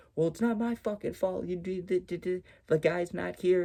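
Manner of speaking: high-pitched yelled voice. Retelling how a man argued with a woman having an angry breakdown: imitating a man yelling back. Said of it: "He was just yelling back at her".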